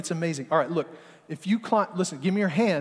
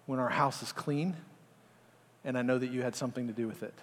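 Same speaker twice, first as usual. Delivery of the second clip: calm sincere gratitude, softer and softer; wife softly thanking husband for a tidy house; gentle appreciation; 3 dB quieter than usual. Retold or imitated. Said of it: "my wife has done this".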